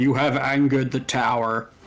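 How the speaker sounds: resounding voice. Game master voicing the angered tower during the game, in a booming voice. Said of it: "Just in a in a relatively booming voice".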